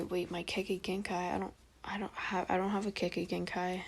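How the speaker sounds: soft, lightly voiced confused boy; mild put-on kid voice; little kid Naruto. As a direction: stammer it quietly with a hint of a child. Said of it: "trying to make a little kid voice".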